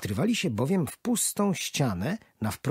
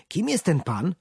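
put-on higher, louder child's question; 8 semitones higher, 4 dB louder than usual. Boy asks grandpa out loud about the man. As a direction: ask out loud, curious. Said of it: "spytał głośno chłopiec".

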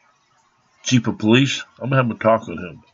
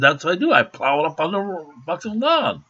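"That's what I do." said higher and lighter, rising on "do"; how he really said it; 6 semitones higher than usual. Retold or imitated. Retelling his actual reply to the officer, higher and lighter. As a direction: explain it innocently, voice up high. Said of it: "I didn't say it like that".

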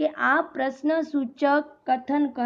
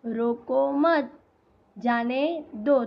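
slow demo, long break between मत and जाने; unhurried, split in two at the comma; pause at comma; slower than usual. Shown as a demonstration. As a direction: stop after मत, then slowly जाने दो. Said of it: "तो यहाँ बीच में क्या आएगा".

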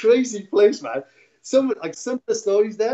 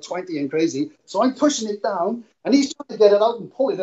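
usual speaking voice

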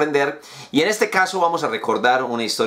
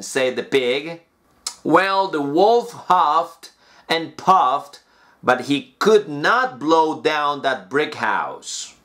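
slow, clear storybook reading; measured fairy-tale narration; story reading; slower than usual. Acted. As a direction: read it like a bedtime story for learners.

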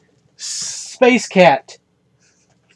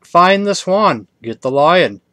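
ringmaster voice; slower than usual. Retold or imitated. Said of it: "Ringmaster voice".

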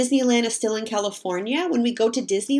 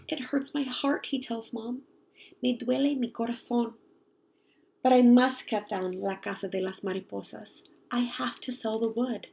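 soft sad; 3 dB quieter than usual. Acted. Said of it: "then he speaks softly. He sounds sad".

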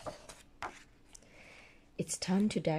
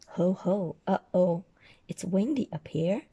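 Santa voice; 8 dB louder than usual. Acted. Santa on the roof.

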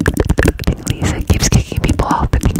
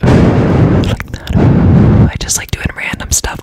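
loud whisper; 7 dB louder, slower than usual. Real, not acted. Bursts out of the whisper.

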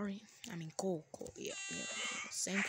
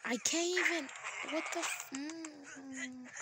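exasperated outburst; 9 semitones higher, slower than usual. Real, not acted. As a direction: burst out in disbelief. Exasperated at game.

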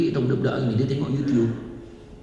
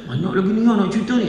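mock eager interest; 4 semitones higher, faster than usual. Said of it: "Dia buat macam ni".

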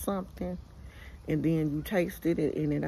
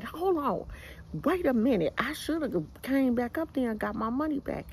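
high, heated cut-in over the man; irate overtalking; 6 semitones higher than usual. Retold or imitated. To the stranger on the phone, high heated overtalk. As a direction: talk right over him, fired up.

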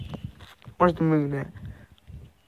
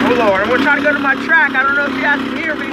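shouting; 4 semitones higher, 4 dB louder, faster than usual. Real, not acted. Shouting over dirt bike engine.

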